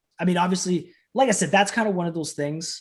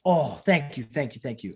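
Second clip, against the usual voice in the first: grateful. Retold or imitated. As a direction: imitate a humble, relieved thank-you. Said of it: "he's sitting here thanking me".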